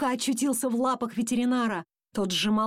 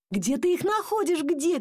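raised, high-pitched demand; shouting dad; 7 semitones higher than usual. A narrator's reading. Dad demanding to know where the fleas are, shouting. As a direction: call out heatedly, pitch up. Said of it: "кричал папа".

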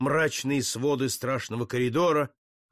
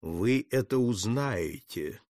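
mysterious; 5 semitones lower, slower than usual. Acted. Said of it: "загадочно ответил добровольный палач".

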